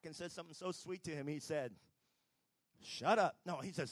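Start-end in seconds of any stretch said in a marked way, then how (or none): 2.8-3.4 a sudden, much louder comic bark; mock shout. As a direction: snap it out as a joke before correcting yourself. God's line, jokingly retracted.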